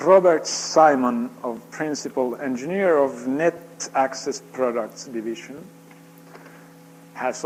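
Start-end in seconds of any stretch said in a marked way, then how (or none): 0.1-1.3 loud, slow announcement of the winner; calling out a name. Real, not acted. Announcing the drawing winner to the audience, loud slow call. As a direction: call the name out to the whole room.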